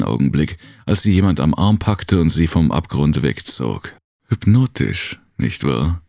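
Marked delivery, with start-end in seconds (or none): 4.3-6.0 soft male voice. Acted. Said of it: "hörte sie eine sanfte männliche Stimme sagen".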